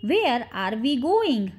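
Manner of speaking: slow, measured teaching pace; slow model repeat. Shown as a demonstration. Teacher repeats the question for English learners, slowly.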